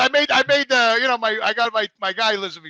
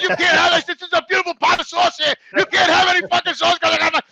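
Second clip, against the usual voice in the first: worked-up, raised-pitch retelling; retold indignant disbelief; 5 semitones higher than usual. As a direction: act out being offended by a refusal. Retelling his disbelief at refusal.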